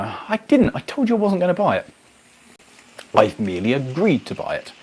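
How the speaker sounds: high, feigned innocence; mock innocent protest. Retelling denying to his girlfriend he bought the bus, high mock innocence. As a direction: play the wide-eyed denier.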